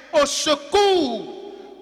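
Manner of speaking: drawn-out slow plea for help. Shown as a demonstration. Preacher praying before preaching, drawn out slowly. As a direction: plead slowly to God. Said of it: "Seigneur, je ne sais pas prêcher".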